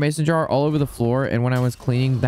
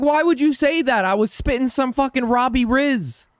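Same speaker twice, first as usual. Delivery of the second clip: retold complaint; 12 semitones higher than usual. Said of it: "I was like".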